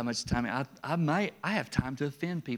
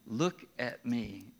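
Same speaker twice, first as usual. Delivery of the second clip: slow, low stern command; firm parent voice, slowed down; parent to child; 5 semitones lower, 4 dB quieter, slower than usual. Retold or imitated. Parent correcting a small child, mildly stern. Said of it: "To the little ones".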